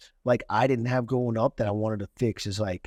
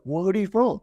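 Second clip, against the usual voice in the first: higher-pitched, pissed-off demand, retold; retold angry challenge; 7 semitones higher, 3 dB louder than usual. Speaker challenging the kid's claim, retold anger. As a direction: act out confronting a heckler. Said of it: "actually pissed".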